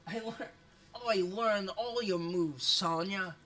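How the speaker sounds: put-on Australian taunt; Aussie accent. Streamer as a fighter addressing Sonya, put-on Australian accent. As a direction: try a mock Aussie accent. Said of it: "Cute Bay Aussie".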